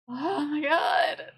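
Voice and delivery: slow drawn-out shout; exasperated shout. Real, not acted. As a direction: stretch it out in disbelief.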